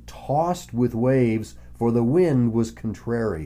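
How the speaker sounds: measured Bible reading voice; scripture reading. Acted. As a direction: read the verse with weight. Reads scripture aloud.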